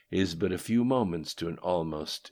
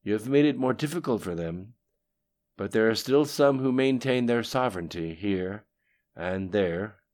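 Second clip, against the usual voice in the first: lightly voiced subordinate, higher and louder; Lim Shun; 4 semitones higher, 7 dB louder, faster than usual. A narrator's reading. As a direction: counter a superior with slightly raised voice.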